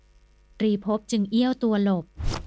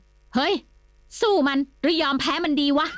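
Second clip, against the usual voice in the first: a touch higher, firm and blunt; firm question; 6 semitones higher than usual. Acted. Kimnuan asks Nikorn whether to fight, firm and blunt. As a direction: ask it straight and solid. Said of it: "กล่าวถามเสียงหนักแน่น".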